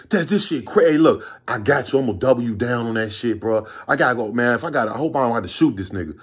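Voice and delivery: faking anger at supplier. Retold or imitated. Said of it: "I'm playing the whole".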